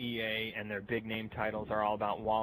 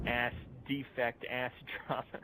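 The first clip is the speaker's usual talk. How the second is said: savoring mock names; 3 dB quieter than usual. Real, not acted. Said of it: "it's fun to say that".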